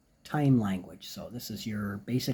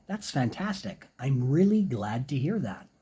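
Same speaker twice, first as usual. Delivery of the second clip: friendly reply. Shown as a demonstration. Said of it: "could say something".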